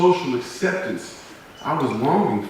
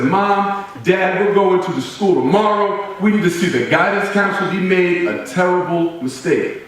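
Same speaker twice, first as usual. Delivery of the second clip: put-on indignant kid; 5 semitones higher than usual. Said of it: "I said".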